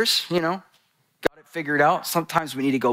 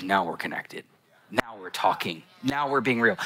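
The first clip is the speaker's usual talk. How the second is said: low, soft imitation of a father; gentle fatherly reassurance; 6 semitones lower, 4 dB quieter than usual. Father answers his vulnerable daughter, softly imitated reassurance. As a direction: quietly voice a dad welcoming honesty. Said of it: "And he goes".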